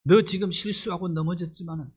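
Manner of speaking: lightly voiced tender Jesus comforting Peter; tender reassurance. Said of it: "이 눈빛으로 바라보는 거야".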